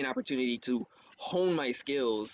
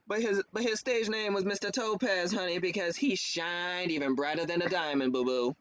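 showy tiefling stage star, lightly put on; a touch of pop-star and Broadway-star swagger; Ray Diablo, flamboyant bard; 4 semitones higher than usual. Shown as a demonstration. Player voicing a tiefling bard's stage persona, showy. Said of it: "a combination of Prince and Billy Porter".

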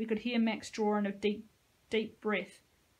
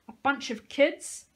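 slow, higher, louder contemptuous growl; 5 semitones higher, 6 dB louder, slower than usual. Acted. Josie taunts the soldier, slow hateful growl. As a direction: spit out the scorn slowly. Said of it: "she growled as she rose".

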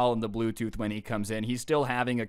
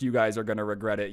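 mock threat with no enthusiasm left, a bit lower; deflated repeat; 3 semitones lower, faster than usual. Dad leaving the store, half-hearted threat. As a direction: trail off the threat, unconvinced. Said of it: "way less enthusiasm than the first".

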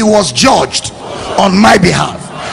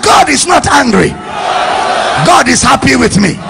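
raised, emphatic declaration; led congregational shout; 2 semitones higher than usual. Shown as a demonstration. Preacher leading the waving congregation, raised declaration. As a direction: call it out for a crowd to echo.

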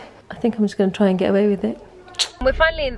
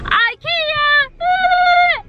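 excited shout. Real, not acted. Revealing destination with fanfare.

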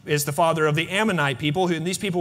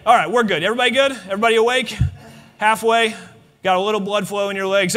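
louder, higher call to the crowd; lively check-in; 3 semitones higher, 4 dB louder, faster than usual. Real, not acted. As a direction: wake the room up with energy. Checking everyone is awake.

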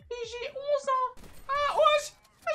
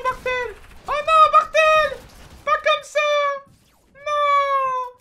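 higher put-on voice, louder on the cries; high troll voice; 2 semitones higher, 8 dB louder than usual. Cheering teammate Martel on, high put-on voice. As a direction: play an excited fake kid cheering his teammate. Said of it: "je vais essayer de faire une petite voix".

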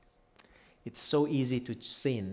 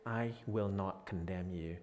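gentle quote; 3 semitones lower, 5 dB quieter than usual. Shown as a demonstration. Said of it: "Do you see the difference?".

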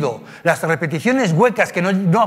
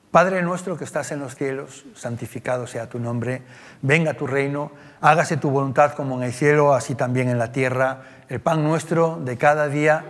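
prayer recitation; 2 semitones lower than usual. Acted.

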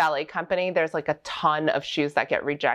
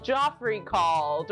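mock teacher; 2 semitones higher, slower than usual. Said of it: "Your teacher would be like".

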